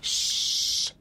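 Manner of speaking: shushing. Acted. Hushing the boy.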